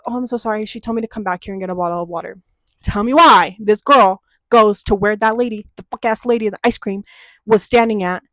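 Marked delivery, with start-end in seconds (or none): 0.1-2.4 sugary fake politeness. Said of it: "I'm like".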